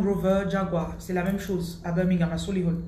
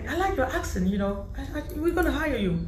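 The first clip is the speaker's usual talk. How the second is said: high, bright interviewer voice; English interviewer charmed by her accent; imitating the interviewer; 6 semitones higher than usual. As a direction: play the delighted English interviewer.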